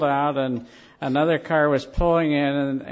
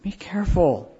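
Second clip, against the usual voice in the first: insistent wife; 5 semitones higher than usual. Retold or imitated. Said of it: "And she said".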